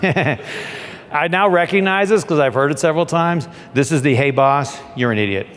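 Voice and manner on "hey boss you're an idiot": you're an idiot voice. Retold or imitated.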